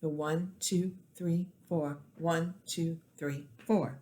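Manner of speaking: steady four count, first beat leaned on; quadruple-meter count; stress on ONE. Shown as a demonstration. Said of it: "quadruple meter".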